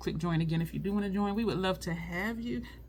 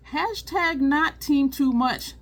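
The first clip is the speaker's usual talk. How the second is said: excited; 8 semitones higher, 8 dB louder, slower than usual. Real, not acted. Proud catchphrase.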